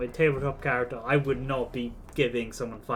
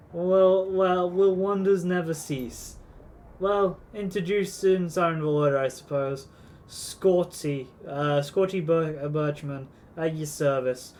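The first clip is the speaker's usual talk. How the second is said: a hint of a gruff old sea dog; mildly hammed-up pirate shopkeeper; 2 semitones higher than usual. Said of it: "I'm turning him into a pirate".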